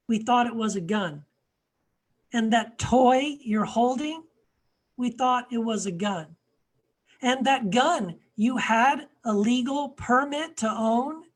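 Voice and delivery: measured poem reading with deliberate pauses; spoken-word plea in a tone-deaf white voice; poem recitation. Acted. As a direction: recite it line by line, building in emphasis then easing off. Reads own poem aloud.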